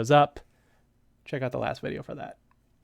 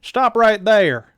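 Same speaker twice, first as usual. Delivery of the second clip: louder, higher and slow "Stop right there", stress on "right"; deeper hero command; 7 semitones higher, 16 dB louder, much slower than usual. Acted. Sergeant redoing his order to the thugs, louder and higher. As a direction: plant your feet and order them to stop. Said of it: "let me get that voice right".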